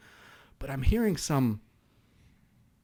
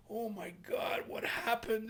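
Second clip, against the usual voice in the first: breathless high whisper of shock; stunned whisper; 9 semitones higher, 9 dB quieter, slower than usual. Retold or imitated. Investigators whisper in shock at the beaten men, hushed and high. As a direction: gasp it out under your breath, stunned.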